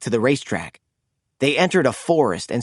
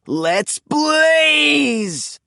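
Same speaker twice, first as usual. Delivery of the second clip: triumphant shout; 11 semitones higher than usual. A narrator's reading. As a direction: launch into top speed. Blaze's catchphrase shout.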